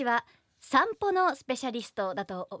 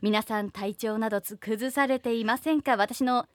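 radio DJ voice. Acted. Hosts her own radio corner.

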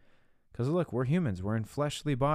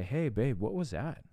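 higher, lightly voiced wife; wife's gentle challenge; 3 semitones higher than usual. Wife to husband after a snarky comment, gently questioning. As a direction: lightly imitate a wife checking in.

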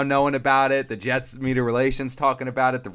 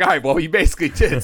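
sarcastic retort; 7 semitones higher, 7 dB louder than usual. Retold or imitated. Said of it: "I was like".

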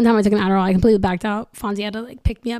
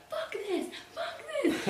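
mock angry; 13 dB quieter, slower than usual. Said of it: "I started getting angry".

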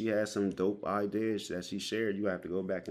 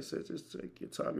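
retold soft reassurance; 8 semitones higher, 7 dB quieter than usual. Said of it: "I'm like".

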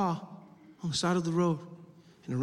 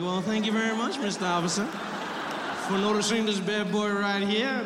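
playfully smug thank-you, slowing to show off; flattered; 2 semitones higher than usual. Retold or imitated. Driver thanks officer for noticing his car, flattered. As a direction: act out being tickled by the compliment. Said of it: "I was a little flattered".

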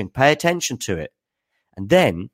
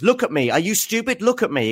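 much higher mock outrage; acted Medvedev quote; 11 semitones higher than usual. Player berating the umpire, high mock outrage. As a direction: play the angry player, pitched way up. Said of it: "my acting performance here".

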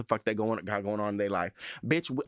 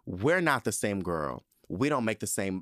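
slow sassy putdown; 2 semitones lower than usual. Pretend. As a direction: cut her down slowly. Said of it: "a part of me is like".

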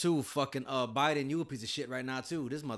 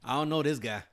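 louder mock denial; cousins disowning him; 5 semitones higher, 9 dB louder than usual. Checking with cousins about the stranger, loud mock denial. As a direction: disown him loudly, playing it up. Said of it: "I already called my cousins".

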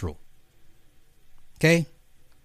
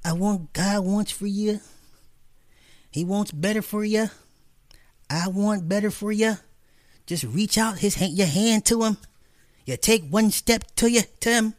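gentle mock pulpit voice, a hint of the preacher; mock Joel Osteen sermon; 7 semitones higher than usual. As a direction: imitate a smooth TV pastor promising blessings. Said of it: "So you actually believe every Sunday".

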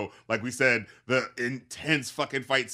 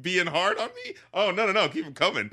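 mocking sarcasm; 4 semitones higher than usual. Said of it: "And it's just like".

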